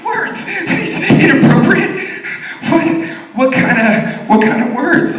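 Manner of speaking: very high, loud mock-shocked squeal; feigned disbelief. Parent disavowing on school call, high mock disbelief. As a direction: play innocent with exaggerated high-pitched shock. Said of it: "your posture should always be just disavow".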